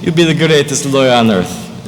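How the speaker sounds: put-on proud mama with a Spanish accent, lilting up high. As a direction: play a doting mom from Spain, Spanish accent. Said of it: "I tweak my accent a little bit".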